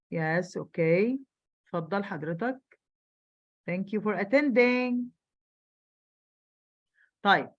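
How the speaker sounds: ordinary delivery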